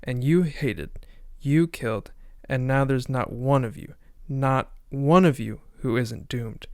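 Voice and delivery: a hint of a preacher's condemning sermon; dramatic reading. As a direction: read it like a sermon to a guilty crowd. Reads the reverend's monologue aloud.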